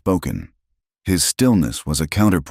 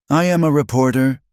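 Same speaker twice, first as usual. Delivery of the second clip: higher, louder declaration; clear and strong; 9 semitones higher, 4 dB louder than usual. A narrator's reading. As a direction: announce yourself to the mob. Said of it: "her voice clear and strong".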